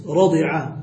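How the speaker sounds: رضع said slowly as radi'a; kasra on the dad. Shown as a demonstration. Teacher wants the kasra form, slow radi'a for رضع. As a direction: stretch رضع, with i after the ض. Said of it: "عايزين بقى بكسر الضاد".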